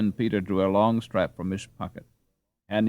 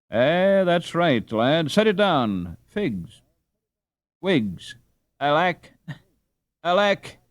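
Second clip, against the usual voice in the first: put-on higher, louder fumbling old man; old father dismay; 8 semitones higher, 4 dB louder, slower than usual. Father trying to remember and losing it, dismayed. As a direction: grope for the lost words, then a dismayed laugh. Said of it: "added Raff with great dismay".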